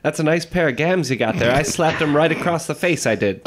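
hammed-up gruff Bogart voice; Humphrey Bogart impression. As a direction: tough old movie guy. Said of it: "Humphrey said to me".

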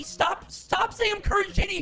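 put-on loud girl voice. Shouting denial in girl voice.

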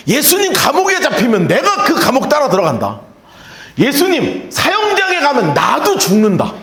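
heated vow, rising to a shout; mock-excited disciple boasting; excited Peter. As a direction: swear loyalty all fired up. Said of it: "베드로가 흥분을 해가지고 뭐라 그러냐면".

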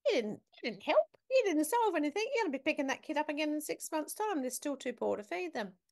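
emphatic skeptical rebuttal, rushing the middle; blunt objection. Retold or imitated. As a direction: tell her flatly she solved nothing. Retorting bluntly to nun's plan.

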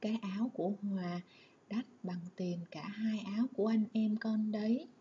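mother's flustered, hushed reply, half whispered. Shown as a demonstration. Mother tells Lan the coat costs too much, flustered and hushed. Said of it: "mẹ bối rối".

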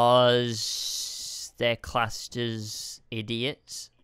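very slow, soft whisper; hushed answer. Real, not acted. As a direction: whisper it out word by word. Slow hushed aside answering the question.

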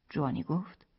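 ordinary delivery, nothing marked

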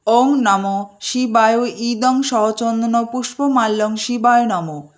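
slow reverent Sanskrit intoning; slow mantra recitation. Acted. Host offering a garland to Shiva, slow reverent recitation.

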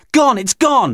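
high, hysterical cry; screamed. A narrator's reading. Beth getting hysterical over the torch, high scream. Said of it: "And Beth screamed".

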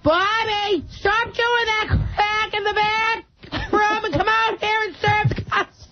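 lightly voiced scolding Massachusetts cousin; a hint of a breathless nagging aunt; cousin Gogo. Comic yelling at Bobby from the shop floor, lightly voiced. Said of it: "It's my cousin Gogo".

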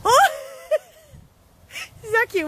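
very high laughing squeal; delighted squeal. Real, not acted. Owner squealing as her dog kisses the decoration.

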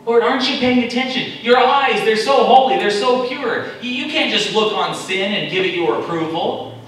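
Habakkuk's complaint. Acted. Preacher voicing Habakkuk's loud complaint to God. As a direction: accuse God of not paying attention. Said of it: "Habakkuk saying".

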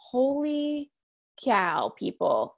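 exasperated appeal, pitch dropping word by word. Retold or imitated. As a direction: stretch it out in mock disbelief, stepping down in pitch. Her exasperated reaction to the judging.

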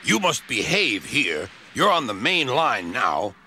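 severely. Acted. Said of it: "Gordon spoke severely to them".

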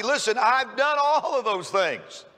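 mock cocky, drawn-out boast; lightly acted self-assured bragging, slowed for emphasis. Rich young ruler brushes off Jesus' answer, cocky. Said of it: "almost to the point of being cocky".

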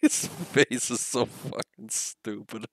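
drawn out slowly, stifling laughter; slow amused disbelief. Real, not acted. Streamer mocking a game character's face, slow and amused. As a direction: savour each word, barely holding in a laugh.

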